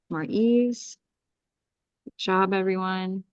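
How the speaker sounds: soothing spiritual healer leading a breathing meditation; guided clearing. Acted. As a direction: guide the group through a calm energy clearing. Leads a group energy clearing.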